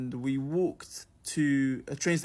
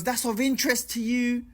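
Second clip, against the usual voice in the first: higher-pitched put-on question; mock woman's voice; 7 semitones higher than usual. Storyteller imitating woman asking about her travels, high mock voice. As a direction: imitate the woman prompting for interest. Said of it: "She goes".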